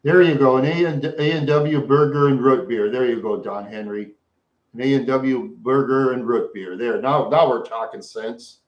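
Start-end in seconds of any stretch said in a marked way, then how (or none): none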